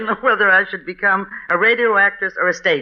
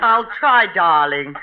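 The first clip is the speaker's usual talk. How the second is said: trying raised voice; slower than usual. Acted. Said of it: "will you raise it a little".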